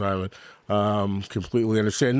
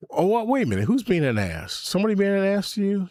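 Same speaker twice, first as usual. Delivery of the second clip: mock outrage; 10 semitones higher, faster than usual. Mock outrage at chat comment.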